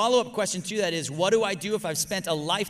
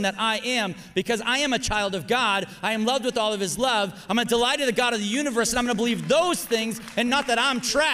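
firm declaration; 3 semitones higher than usual. Retold or imitated. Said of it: "look at them and say".

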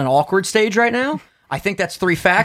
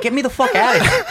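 higher, laughing plea to escape; laughing panic; 7 semitones higher than usual. Retold or imitated. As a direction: laugh it out like you want out of the chair. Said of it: "I would be like".

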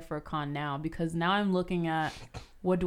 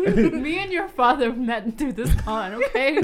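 mock mom lecture; 7 semitones higher, 6 dB louder, slower than usual. Mock mom to future kid.

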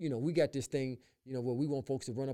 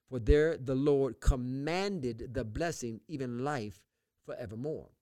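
slow, measured Bible reading; scripture reading. Acted. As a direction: read the Psalm out slowly, phrase by phrase. Reads the Psalm aloud.

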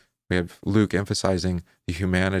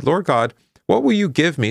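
higher, louder anguished plea; pleading cry; 9 semitones higher, 5 dB louder than usual. Acted. Abram crying out to God, a higher, louder plea. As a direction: cry out to God as a childless man.

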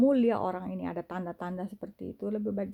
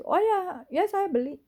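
airy, higher "oh ya, saya beli"; mock casual reply; 10 semitones higher than usual. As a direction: toss it off lightly, playing the buyer. Acted reply about a purchase. (jawaban santai pura-pura)

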